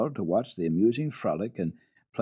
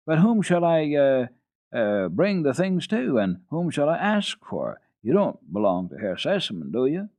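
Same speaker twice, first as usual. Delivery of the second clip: put-on louder, halting old keeper with ums; hesitant old keeper; 6 semitones higher, 5 dB louder than usual. Keeper asking Heidi who gets the kittens, hesitant.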